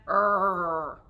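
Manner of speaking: low rolling growl; bear growl. Shown as a demonstration. Teacher ending bear verse, low growl. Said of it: "hear the bears growling".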